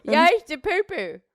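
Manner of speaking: high, botched Australian question; Australian accent. Shown as a demonstration. Insisting on the attempt, bad Australian accent. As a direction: fake Australian that slips toward East End. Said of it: "That's not Australian".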